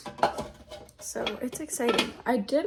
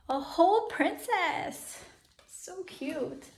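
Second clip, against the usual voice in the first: cooing; 7 semitones higher, slower than usual. Real, not acted. Cooing over a dress.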